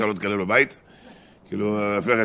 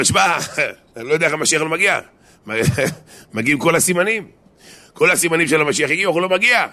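high, loud mock bewilderment with a chuckle; baffled exclamation; 6 semitones higher, 4 dB louder than usual. Quoting the rabbi baffled that Messiah has not come, amused astonishment. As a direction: protest in amused disbelief, pitch climbing.

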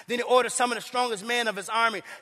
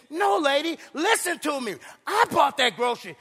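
fed-up neighbor insisting, higher pitch; exasperated insisting; 5 semitones higher than usual. Retold or imitated. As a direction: make her finally listen. Atheist insisting to the lady.

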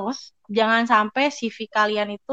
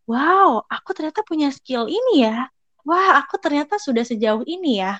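higher wow, pleasantly astonished at oneself; acted amazement; 4 semitones higher than usual. Cheering yourself up by rereading your CV, amazed. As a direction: marvel lightly at how far you've come.

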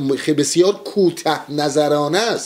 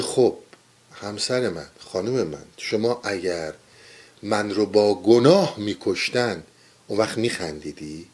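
soft, lower, patient reply to his wife; gentle Socrates; 4 semitones lower, 4 dB quieter than usual. Retold or imitated. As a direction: calmly reason with a worried wife.

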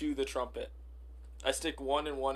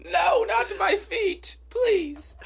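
high, loud, panicked begging; mock terrified pleading; 12 semitones higher, 6 dB louder, much slower than usual. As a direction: beg for your feet, hammed up. Peasant begging in skit.

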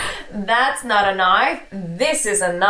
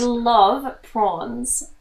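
put-on Australian accent; much slower than usual. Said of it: "All right, you say it".

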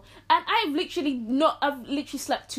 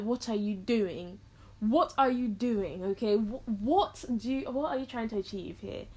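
baffled deadpan question; 3 dB quieter than usual. Retold or imitated. Deadpan reaction to mum's antics.

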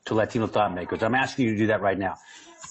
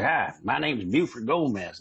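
a lightly imitated slow Texas accent; 3 semitones higher than usual. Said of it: "They all had Texas accents".

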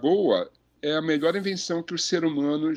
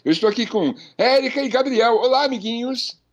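cartoon princess; 6 semitones higher than usual. Host greeting listeners, kids-show style.

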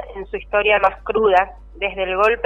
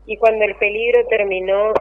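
poem reading. Acted. Poem read aloud on air.

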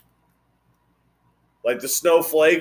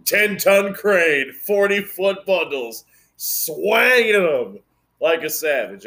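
slow bragging boast; 4 semitones higher, slower than usual. Real, not acted. Bragging about crane skills.

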